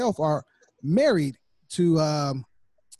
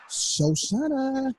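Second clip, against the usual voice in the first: calling out; 8 semitones higher, much slower than usual. Real, not acted. Calling for the guest to join.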